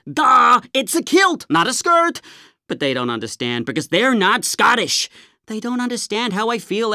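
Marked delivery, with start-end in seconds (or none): 0.0-2.2 snotty duh. Retold or imitated. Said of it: "And I was like".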